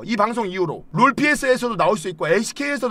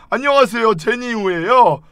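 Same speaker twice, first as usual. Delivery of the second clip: mock greeting; 4 semitones higher, 4 dB louder than usual. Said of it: "이 새끼 뭐".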